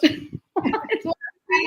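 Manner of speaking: slow, laughing through the words. Real, not acted. Guest laughing at her own teaspoon point, laughing.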